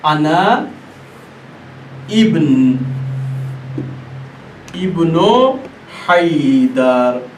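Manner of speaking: अना इब्नु हैदर said slowly with pauses, हैदर stretched; अना इब्नु हैदर drawn out, हैदर long; slow recitation. Shown as a demonstration. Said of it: "क्या फरमाया".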